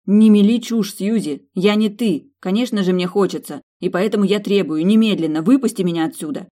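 yelling at Suzie through the door; angry shout. Acted. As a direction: demand release at full voice. Shouting demands at friends.

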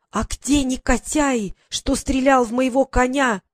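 slow, foreign broken-Russian question; a foreigner struggling with Russian words; an angry foreign officer asks in broken Russian; broken Russian accent. Acted. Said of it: "Он говорил на ломаном русском".

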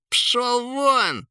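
high-pitched, angry outburst; furious king. A narrator's reading. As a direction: screech it at the bird, outraged. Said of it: "зашипел Кейн". (злобно, высоким голосом)

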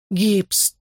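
high, drawn-out happy call; excited cry. A narrator's reading. Groggy boy thanking friend who found her, excited cry. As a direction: cry out in mild, slow-tongued excitement. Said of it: "крикнул я".

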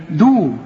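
دو with a thin, plain dal; light d. Shown as a demonstration. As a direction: demonstrate دو with a light d. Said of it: "شوف". (دال مرققة في دو)

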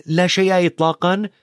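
mild eager excitement; excited. A narrator's reading. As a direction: ask eagerly. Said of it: "قال رون متحمسا".

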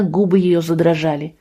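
plain reading voice

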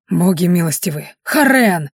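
испуганный выдох, громче и выше; выдохни имя в испуге; в ужасе. Acted. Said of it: "в ужасе выдохнул один из оборотней". (в ужасе выдыхая)

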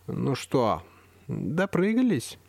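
drawn-out, rising taunt; lazy old cat. A narrator's reading. Old cat needling the quarrelling toys, lazy taunt. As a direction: stretch it into a feline meow. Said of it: "Кошка Берта лениво вытянула лапки и вдруг произнесла".

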